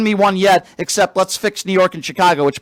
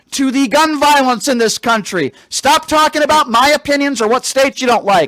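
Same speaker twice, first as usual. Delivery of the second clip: loud sharp voice; 3 semitones higher than usual. Real, not acted. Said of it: "why are you yelling?".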